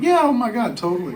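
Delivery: high-pitched gushing agreement; eager. Retold or imitated. Show staff answer agent's request, eager. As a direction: imitate someone instantly thrilled to agree.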